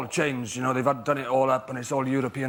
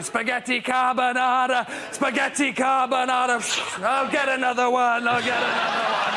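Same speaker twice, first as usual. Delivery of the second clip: struggling waiter; 8 semitones higher than usual. Acted. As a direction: call the order out over a downpour. Acting waiters battling through rain to tables.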